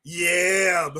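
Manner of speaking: slow, drawn-out catchphrase delivery; savoring, long-held vowels; Booker T. Retold or imitated. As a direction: stretch it out like a wrestling catchphrase. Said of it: "I'm like doggone Booker T".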